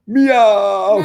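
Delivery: high, loud, drawn-out meow; calling cat meow. Acted. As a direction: call out like a cat summoning others. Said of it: "they all hear Venom call".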